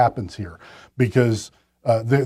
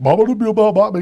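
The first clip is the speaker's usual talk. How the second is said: lightly imitated scat singing, pitched higher; impersonation of a famous jazz singer; 7 semitones higher than usual. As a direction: toss off a rough bit of mock scat gibberish. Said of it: "That's my jazz singer impersonation".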